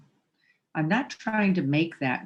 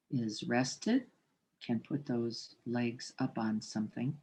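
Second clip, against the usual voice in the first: measured meditation guide, long pauses between phrases; guided meditation. Real, not acted. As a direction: settle listeners into the body, unhurried.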